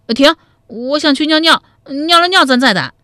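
put-on high, piping child voice; little boy. A narrator's reading. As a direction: call time out like a small kid. Child character begs a toilet break.

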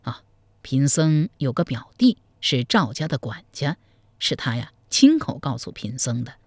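a sly monk confiding gossip; old monk. Acted. Monk tells the groom about the bride, low and measured.

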